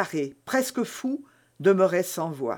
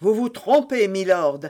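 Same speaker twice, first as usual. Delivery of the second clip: defiant; 2 semitones higher, 4 dB louder than usual. Acted. Milady defies the baron.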